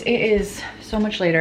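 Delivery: talking around chewing gum; mouth full. Real, not acted. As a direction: chew gum while you talk. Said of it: "'cause I have gum in my mouth".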